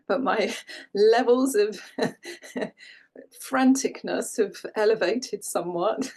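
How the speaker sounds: laughing between the words; amused, laughing. Real, not acted. Yoga teacher confessing festive franticness to class, amused laughter. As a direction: chuckle through a rueful admission.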